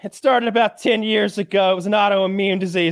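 put-on quoting the blind girl. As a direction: tell your sad story on camera, lightly performed. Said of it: "And she's like".

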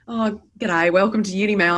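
lightly put-on broad Australian accent, hammed-up ocker greeting; a hint of a bad Australian accent answering the phone; worst Australian accent. Answering her office phone as a fake receptionist, in a lightly hammed-up Australian accent. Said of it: "I'd put on my worst Australian accent".

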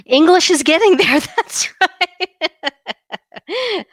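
loud, high, real laughing echo; laughing hard. Real, not acted. Host delighted by co-host's totalitarian joke, laughing hard. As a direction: crack up while repeating the joke.

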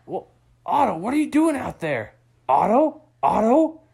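dad searching for his sleeping son; dad calling out. Acted. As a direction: call across the lake to a sleeping son. Dad calls out to Otto.

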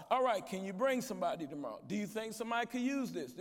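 imitating the pastor. Pastor at the podium asking the crowd to bring someone, a light fast imitation. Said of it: "I love to watch him at the end of these conferences".

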